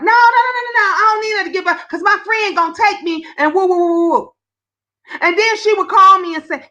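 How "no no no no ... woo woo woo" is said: high-pitched string of refusals; mock hurried protest. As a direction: imitate a sister brushing off the offer. Sister refusing the bus card.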